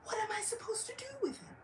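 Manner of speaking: high, breathless whisper; exasperated whisper. Acted. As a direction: throw up your hands under your breath. Haridas exasperated aside.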